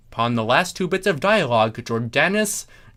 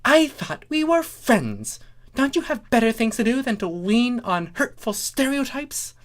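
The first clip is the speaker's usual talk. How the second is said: indignant; 12 semitones higher than usual. A narrator's reading. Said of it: "glaring at Starlight".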